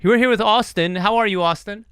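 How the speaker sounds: high, loud welcome that stays up; excited host intro. Pretend. Host reintroducing an unexcited guest, excited and high. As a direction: relaunch the guest intro with big energy. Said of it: "Can we try that again?".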